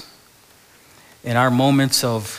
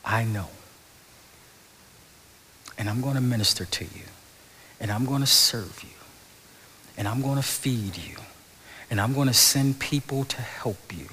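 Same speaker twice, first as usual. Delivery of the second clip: softer, tender promise; gentle voice of God; 4 dB quieter than usual. Retold or imitated. God reassuring the depressed listener, soft and tender. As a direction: soothe like God comforting. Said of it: "hear him say".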